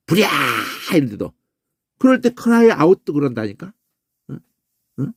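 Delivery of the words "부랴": warning cry. Shown as a demonstration. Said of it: "뭘 경고할 때도 소리 지르고". (경고하듯 길게 외치는 소리)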